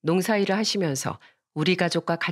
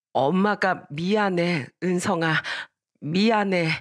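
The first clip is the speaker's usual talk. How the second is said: sorrowful apology; slower than usual. Acted. Mother answers her resentful daughter, slow sorrowful apology. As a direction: apologize tenderly and slowly to a hurt child.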